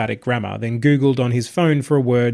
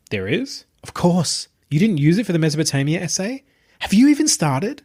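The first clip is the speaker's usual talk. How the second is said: put-on higher, quicker voice for a sardonic young woman; Tabitha's voice; 4 semitones higher than usual. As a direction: sardonic young woman, teasing her friend. Narrator voices Tabitha teasing Jonah.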